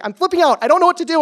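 high, frantic mock freak-out; hammed-up panicky outburst; imitated panic. Retelling upset friend's panicked call.

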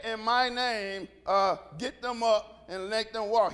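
mock wordy healing command; showy invocation. Shown as a demonstration. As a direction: intone it like a ceremonial formula. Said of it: "He never said".

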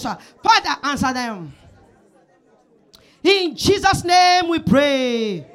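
fervent prayer. Acted. Leads fervent congregational prayer.

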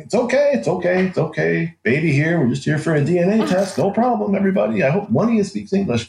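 pitched well up, rushing to calm armed guards; frantic reassurance. Retold or imitated. Father jumping out to calm the armed embassy guards, frantic and high. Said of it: "I jump out. Like".

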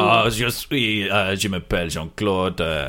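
mock French accent, halting; French sommelier. Jean-Claude introducing himself to diners, French accent. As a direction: play a hesitant French sommelier.

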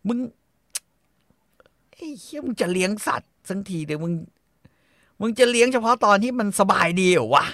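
furious cursing at the uncle; angry rant. Real, not acted. Furious rant about pet owner.

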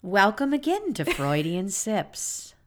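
slow, drawn-out show welcome; slow announcer. Pretend. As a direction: announce the show name slowly.

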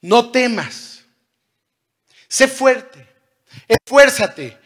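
rally them with a strong shout; almost shouting. Acted. Jesus calling to his fearful disciples, loud and urgent. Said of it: "Casi gritándoles".

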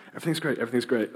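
mock relentless positivity; chirpy stereotypical Christian. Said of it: "stereotypical Christian who's like".

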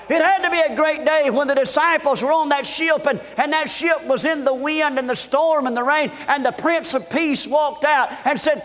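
earnest, rhythmic sermon delivery; fervent preaching. Real, not acted. Preacher recalling great days with Jesus, fervent preaching. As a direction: preach each great day with building fervour.

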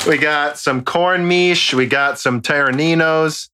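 drawn-out put-on German accent; mock German accent. Host listing snacks from Berlin, mock German accent. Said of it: "do offensive German accents right now".

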